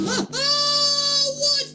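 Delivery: frightened cries. Real, not acted. Jump scare reaction.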